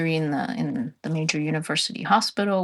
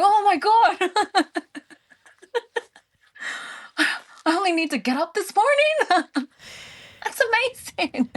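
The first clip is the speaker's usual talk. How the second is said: amazed; 13 semitones higher than usual. Retold or imitated. Her own amazed reaction, retold.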